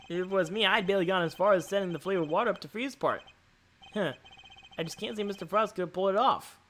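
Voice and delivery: doubtful sidekick. Acted. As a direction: puzzle it through as the junior partner.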